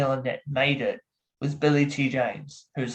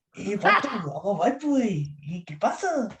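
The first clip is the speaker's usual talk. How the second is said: high-pitched comic vato voice; playful vato impression, pitched up; 5 semitones higher than usual. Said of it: "I do my voice impressions".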